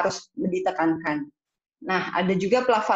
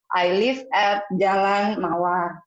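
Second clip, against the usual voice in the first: bad example answer; much slower than usual. Shown as a demonstration. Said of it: "Nah, jangan kayak gitu".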